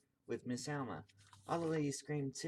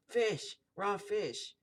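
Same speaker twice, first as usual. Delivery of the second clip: high, loud outraged cry; storybook shriek of revulsion; disgusted scream; 8 semitones higher, 5 dB louder, much slower than usual. A narrator's reading. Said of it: "she screamed".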